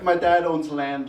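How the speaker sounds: slow, haughty mock European accent, drifting German; a hint of a posh European accent. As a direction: play a rich European heir in a lightly faked European accent. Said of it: "trying to speak in a European accent".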